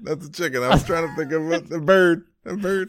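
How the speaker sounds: bird-like chicken clucking voice; chirping bird person. Acted. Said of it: "the first bird you went to was, was a chicken".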